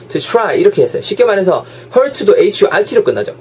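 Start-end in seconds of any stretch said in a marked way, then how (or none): 0.1-0.6 "to try" said as its own chunk after a break; separated phrasing. Shown as a demonstration. Teacher showing learners the split, separated phrasing. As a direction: set "to try" apart from what precedes it. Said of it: "분명히 이렇게 자르고".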